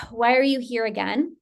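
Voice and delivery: sighing, mildly frustrated question; a touch of acted exasperation. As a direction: let out a sigh, then ask it wearily. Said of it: "you're frustrated".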